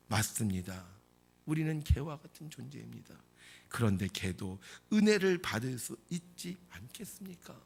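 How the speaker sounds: low, subdued acted answer; humble reply. Woman humbly answers Jesus. (낮고 겸손한 말투)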